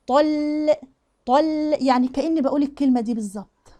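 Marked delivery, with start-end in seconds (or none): 0.1-1.8 "طل" with heavy "ط" easing into thin "ل"; gentle light laam. Shown as a demonstration. Teacher shows how to come down on the laam, gently. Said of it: "وانزل بقى على اللام بالراحة".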